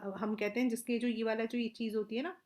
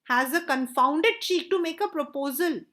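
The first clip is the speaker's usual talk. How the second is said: louder, higher mock outrage; slow, raised-voice scolding; indignant abuse; 4 semitones higher, 5 dB louder, much slower than usual. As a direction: voice some acted indignation at the nerve of it. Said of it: "गालियां कर दे रहा".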